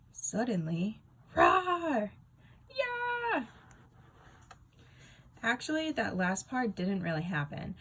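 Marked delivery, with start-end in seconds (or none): 1.3-3.5 loud high hammed-up roar and cry; monster roar. Narrator jazzing up the story with a hammed-up monster roar. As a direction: burst in like a silly monster.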